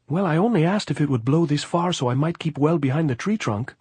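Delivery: high-pitched, protesting gypsy voice; defensive gypsy. A narrator's reading. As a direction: justify yourself in a high, insistent voice.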